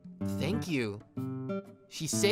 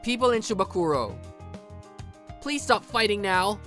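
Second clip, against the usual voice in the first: raised-pitch appeal to a crowd; calling out; 4 semitones higher than usual. Acted. Boyfriend pleading with rival gang, calling out. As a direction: address the whole gang firmly.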